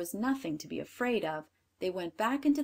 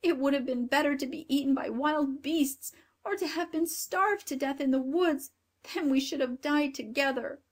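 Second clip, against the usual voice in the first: higher, louder despairing cry; tearful exclaim; 6 semitones higher, 3 dB louder than usual. A narrator's reading. Grethel weeping as she draws water, higher despairing cry. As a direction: wail it through tears. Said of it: "she exclaimed, tears rolled down".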